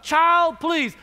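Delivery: loud first word, dismissive finish; full-dose teacher scolding. Retold or imitated. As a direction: imitate a teacher's emphatic put-down. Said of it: "I'm gonna give you a, a full dose of".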